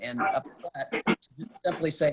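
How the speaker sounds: ordinary talk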